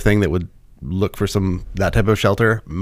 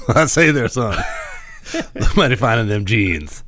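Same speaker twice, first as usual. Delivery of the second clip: Eddie Murphy impression. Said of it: "Eddie Murphy talking about Mister T".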